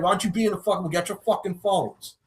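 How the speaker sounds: high-pitched mock rapper rant; a rapper. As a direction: imitate a rapper yelling at the crowd. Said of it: "he was literally yelling at them".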